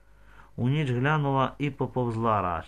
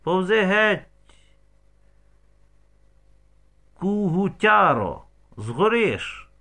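loud, higher angry yell, slow on the insult; angry shout; 6 semitones higher, 5 dB louder, slower than usual. A narrator's reading. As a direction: bellow it at the man by the haystack. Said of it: "крикнув Романові".

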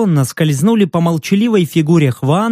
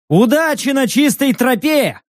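called out much higher, with a sneer; mocking call; 7 semitones higher than usual. A narrator's reading. The hero mockingly calling after the fleeing vagrants. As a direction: toss it after them as a taunt. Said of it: "крикнул я им насмешливо".

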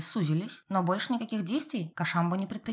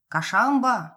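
calling the cat's name out loud; shouted name; 3 semitones higher, 7 dB louder, much slower than usual. A narrator's reading. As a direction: call out to the cat in the shed. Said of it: "громко прокричал папа Коля".

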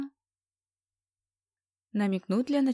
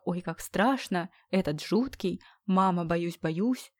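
mock scared girl; slower than usual. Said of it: "усомнилась в реалистичности".

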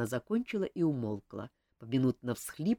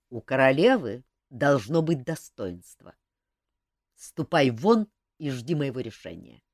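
stern dismissal; 2 semitones lower, 6 dB louder than usual. Acted. King dismissing the favourite.

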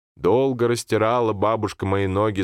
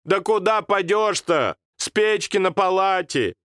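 grandmother scolding; 11 semitones higher than usual. Acted. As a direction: shake your head at him.

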